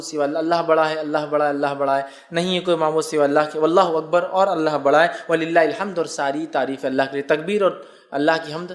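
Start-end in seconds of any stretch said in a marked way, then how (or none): none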